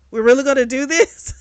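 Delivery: loud disbelieving laugh through the words; laughing incredulous. Retold or imitated. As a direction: laugh at how absurd it is. Girl calls out disrespect at dinner.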